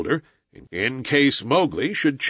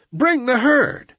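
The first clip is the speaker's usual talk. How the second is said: high, long-drawn command; crying out; 12 semitones higher, 3 dB louder, slower than usual. A narrator's reading. Mowgli orders Akela to drive the buffaloes, crying out. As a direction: stretch the order out high and slow. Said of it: "he cried".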